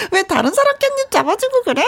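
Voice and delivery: high coy whine; whiny spoiled pouty drawl. Acted. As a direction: pout and sulk at him. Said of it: "애교스러운 여자가 앙탈 느낌으로만".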